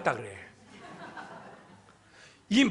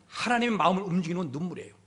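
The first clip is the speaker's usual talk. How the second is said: quicker, slightly softer and falling; quick restatement; 3 dB quieter, much faster than usual. Real, not acted. Preacher restating the key point to the congregation, quickly. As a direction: run it together as a quiet restatement.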